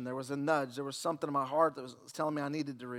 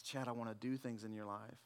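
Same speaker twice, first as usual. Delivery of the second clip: much softer and lower, a hushed voice of God; God speaking softly; 7 semitones lower, 15 dB quieter than usual. Retold or imitated. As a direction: hush it like a holy whisper. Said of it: "the Lord spoke to me again".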